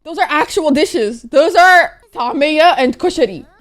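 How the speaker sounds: loud, high, thrilled exclaiming; can't believe they named your food; bursting with excited pride. Real, not acted. Thrilled at home dishes named.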